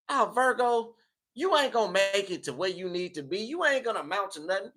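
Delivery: a hint of a jeering onlooker; mock doubters. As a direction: lightly voice the doubters talking down to someone. Voicing doubters talking down to Virgo.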